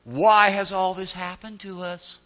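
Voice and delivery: slow, high, dripping sarcasm; Gideon, sarcastic. Acted. Gideon questioning the Lord, slow sarcastic complaint. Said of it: "hear the sarcasm dripping out of his voice".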